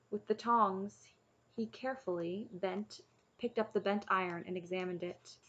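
measured storybook reading; story narration. A narrator's reading. Reader reading a chapter book to listeners, story narration. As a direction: read the tale aloud evenly.

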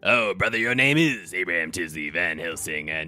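lightly voiced hyped-up wrestler; slow, drawn-out showdown challenge; hint of a ring showman; wrestler taunt.

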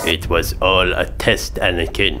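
mock-sinister hushed twist; understated villain reveal. Dramatic reveal to Anakin.

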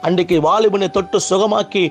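sustained, insistent sermon cadence; fervent preaching. Real, not acted. Preacher promising believers their tears will be wiped away, fervent preaching. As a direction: press each promise home like a revival preacher.

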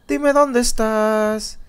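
canturreo bajito y burlón, muy despacio; burla suave y lenta. Pretend. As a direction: provoca al monstruo casi en secreto. Repite la burla al monstruo. (le canta bajito al monstruo para provocarlo, burlón y lento)

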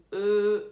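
"Ah" held over a second, loud and level; long hesitation. Shown as a demonstration. Teacher shows how long it lasts, stretched "Ah". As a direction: hold "Ah" as a long French euh. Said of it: "Tem mais de um segundo".

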